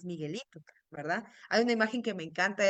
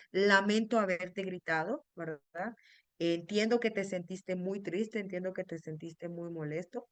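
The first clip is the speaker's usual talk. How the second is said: gentle apology. Shown as a demonstration. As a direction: apologize tenderly, take your time. Parent apologizing to child, modeled.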